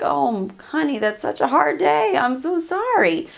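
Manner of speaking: acted empathetic spouse; sympathetic. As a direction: coo sympathy to an upset partner.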